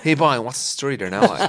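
mock posh South Dublin accent. Teasing a friend's attempt, posh South Dublin accent. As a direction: mimic a South Dublin try at Cork. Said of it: "like a posh South Dublin guy".

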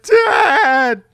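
very high, very loud cry of dad; big high-pitched mock yell; shout for dad. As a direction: scream after the vanishing father. Clark calls out to dying dad.

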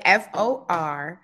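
letters spelled out one by one, slowing at the end. Shown as a demonstration. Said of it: "So I'm gonna spell it".

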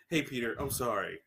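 low, soft, sheepish apology; retold meek sorry; quiet mock apology. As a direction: apologise low and under your breath. Sandman's apology, acted out.

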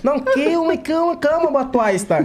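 put-on high-pitched quoted foreign accent; quoting the prince in his Angolan accent; Angolan accent quote. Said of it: "com aquele sotaque dele".

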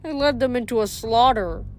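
high, tearful satyr voice; dejected satyr voice. Acted. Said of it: "He sniffed dejectedly".

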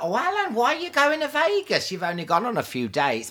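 high, pleading boyfriend impression; mock protest. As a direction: whine it up high like a doubtful boyfriend. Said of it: "they were like".

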